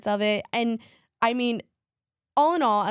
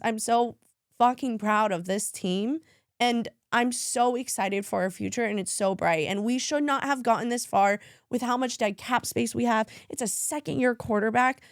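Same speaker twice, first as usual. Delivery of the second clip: tearful. Real, not acted. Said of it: "Oh, there she goes".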